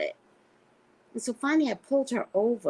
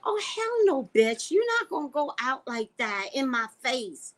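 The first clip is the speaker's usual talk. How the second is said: high-pitched, sassy outrage; hammed-up indignant retort; retold indignation; 7 semitones higher than usual. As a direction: act out an affronted comeback, pitched well up. Retelling her indignant comeback.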